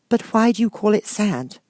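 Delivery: put-on high, slow, wondering girl; curious Alice. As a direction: ask it with puzzled wonder. Alice voiced in story.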